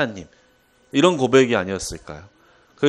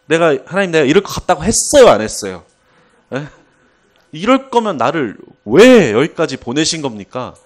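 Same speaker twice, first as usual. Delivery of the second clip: loud, fast, indignant complaint; Jonah arguing; 4 semitones higher, 7 dB louder than usual. Retold or imitated. Jonah arguing with God, loud indignant protest. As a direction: throw the protest back at God. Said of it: "하나님한테 막 따집니다".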